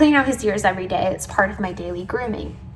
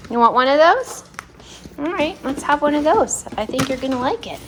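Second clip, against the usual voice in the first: higher, sweet voice to a dog; coaxing pet talk; 6 semitones higher than usual. Real, not acted. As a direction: offer a treat in a lifted, cooing voice. Offering her dog a treat.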